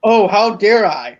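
slow, drawn-out mock offense; sarcastic. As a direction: fake indignation, stretched slow. Mock outrage at spoiling.

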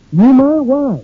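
startled high question; surprised. Acted. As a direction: caught off guard, voice jumps up. Willie startled by the request.

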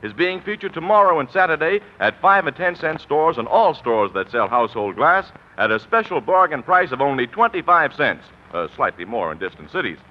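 bright sponsor pitch, upbeat announcer; chipper 1950s ad. Acted. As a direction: sell the pie plate cheerfully. Sponsor ad read.

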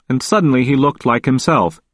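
ordinary delivery, nothing marked

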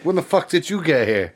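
mock surprise. Goku finds Kami standing there, mock surprise.

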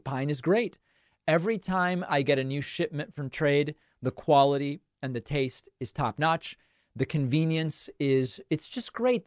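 soft, even ad-read voice; sponsor ad read. Acted. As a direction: read the coffee ad like a smooth spot.

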